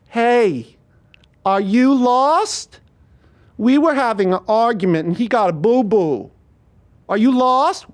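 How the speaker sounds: high, slow, mock-gentle thug voice; mock-sweet thug. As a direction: talk down to him like a child.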